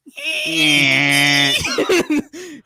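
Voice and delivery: big burst of laughter; loud laugh. Real, not acted. Storyteller bursting into loud laughter.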